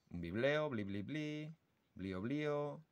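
soft chirping bibleo syllables; birdsong imitation. Shown as a demonstration. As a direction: mimic a goldfinch trill softly. (imitación suave de trino de jilguero)

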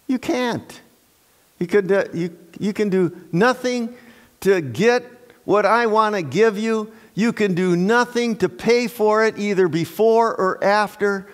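voicing God. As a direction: speak as God, gently correcting. Preacher voices God answering.

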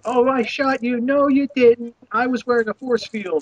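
a hint of a bickering preschooler; playing preschooler. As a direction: mimic a little kid at make-believe play. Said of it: "preschoolers are playing".

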